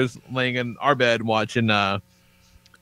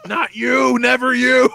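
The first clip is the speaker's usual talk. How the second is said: high, pleading lament; mock dismay; 11 semitones higher, 4 dB louder, slower than usual. Dad lamenting his daughter growing up, high comic dismay. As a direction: protest high, as if betrayed.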